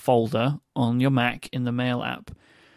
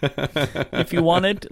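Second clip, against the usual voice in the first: laughing; 4 semitones higher, much slower than usual. Real, not acted. Laughing while pitching.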